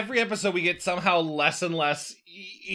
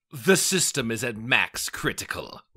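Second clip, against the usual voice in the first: slow, lower robotic alarm announcement; a flat automated warning, lightly voiced; security system voice; 5 semitones lower, slower than usual. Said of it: "a security system voice".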